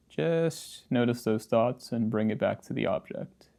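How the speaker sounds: casual, understated meditation guidance with long pauses; easygoing meditation-teacher delivery, slightly subdued; guided meditation. Acted. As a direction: gently guide the listener through practice, leaving silences. Leads a guided posture meditation.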